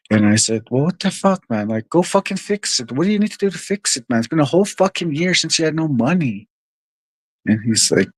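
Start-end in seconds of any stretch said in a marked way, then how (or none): 0.7-6.5 higher-pitched exasperated retelling; mildly worked-up, pitched-up retort; retold exasperation. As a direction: recount telling off a buddy in exasperation. Retelling his frustrated outburst at buddy.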